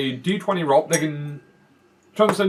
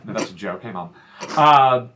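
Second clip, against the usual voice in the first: talking with a mouthful; words around a bite of food; mouth full; 5 semitones lower, 4 dB quieter than usual. Real, not acted. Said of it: "with food in my mouth".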